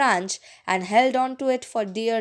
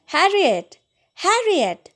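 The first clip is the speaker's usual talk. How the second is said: desperate call; 7 semitones higher than usual. Acted. Drowning girl crying to her little sister, despairing. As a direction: cry out in despair.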